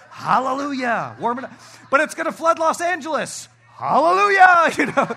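high, loud laughing cheer; laughing joke. Real, not acted. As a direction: ham up the celebration, laughing. Joking about global warming.

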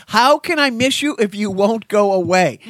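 hammed-up plea for some space; mock exasperation. Dad to his clingy son, mock exasperated.

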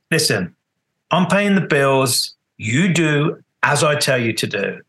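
mild retold scolding, slow and measured; telling-off. Bandleader telling off his late drummer, a slow, mildly stern retelling. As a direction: imitate a firm uncle laying down the law. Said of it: "like being told off by your uncle".

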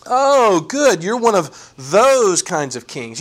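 slow mock-impressed "oh, good"; sarcastic. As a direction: pretend to be impressed while scoffing. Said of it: "he's saying that sarcastically".

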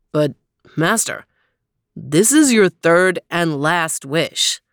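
booming genie voice; grand, eager magic genie. Acted. Genie speaks in story.

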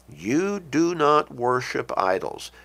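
"do not" slow and firmly stressed; slow, measured prohibition with weight on "not"; emphatic command. Acted. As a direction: lay down the rule, leaning on "not". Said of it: "God is emphatic".

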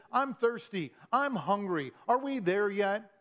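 a hint of a nagging child in the back seat; pestering child. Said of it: "some of those kids in the car".

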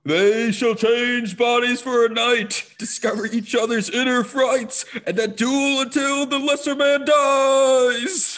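high, slow witch prophecy. Acted. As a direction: intone it like a Greek chorus witch. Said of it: "Did you like my witch voice? ... the deep, booming baritone".

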